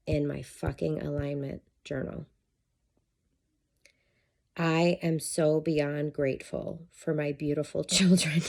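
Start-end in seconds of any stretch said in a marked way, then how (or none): 4.6-8.4 reading the line while laughing; laughing through it. Real, not acted. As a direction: laugh at the irony as you read. Reads journal line, laughs.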